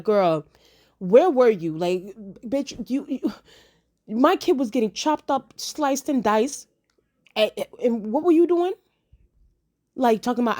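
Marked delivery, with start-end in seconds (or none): 0.0-8.7 louder, higher mock call-out; mock scolding. Fans on Twitter scolding Ser Criston Cole, mock angry call-out. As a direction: chew him out like an angry fan.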